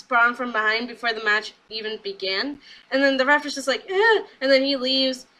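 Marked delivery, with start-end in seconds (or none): 3.9-4.2 dismissive "eh". Retold or imitated. Referee's reaction, imitated.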